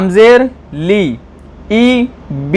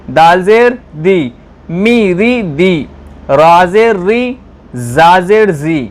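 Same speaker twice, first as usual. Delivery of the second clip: slow, sing-song Qaida chanting for pupils; measured teacher's drill chant; syllable recitation drill; slower than usual. Shown as a demonstration. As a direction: sound out each syllable like a teacher leading the class.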